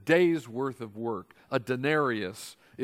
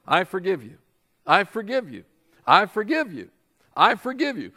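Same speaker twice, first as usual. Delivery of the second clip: rising, louder grudging repeats of "I forgive you"; each "I forgive you" more exasperated, counting them off; 4 semitones higher, 7 dB louder than usual. Pretend. Preacher mocking someone who ticks off four forgivenesses, exasperated.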